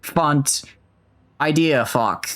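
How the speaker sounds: attempted Australian accent; amateur Aussie accent. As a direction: have a rough go at an Australian accent. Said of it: "Did I do a good Australian?".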